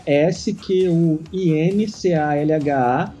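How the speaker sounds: spelling it out. Shown as a demonstration. Spelling his surname letter by letter.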